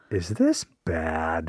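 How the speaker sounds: slow, low, hushed question; understated ominous wondering; mock worry. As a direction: ask it gravely and softly. Voices the inventor's worry.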